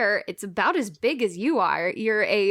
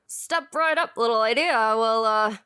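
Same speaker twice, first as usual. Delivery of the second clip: lightly voiced fairground showman; touch of carnival hawker; carnival booth barker. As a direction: invite them up like a booth operator, a hint of patter. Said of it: "The man with the pinstripes and the suspenders who is running this little booth".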